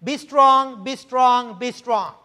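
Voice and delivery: repeated "strong" loud at first, dying down; threefold emphasis. Shown as a demonstration. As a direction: hammer "strong" three times, then ease off. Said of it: "Notice the threefold".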